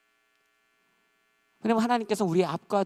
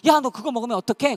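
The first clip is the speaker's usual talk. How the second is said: loud, high-pitched reproach; alarmed scolding; 9 semitones higher, 10 dB louder than usual. Acted. Friend who knows about the diet, loud scolding. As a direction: call out a friend caught cheating.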